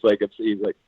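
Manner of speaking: usual speaking voice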